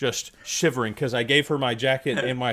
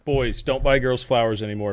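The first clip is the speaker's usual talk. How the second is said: ordinary delivery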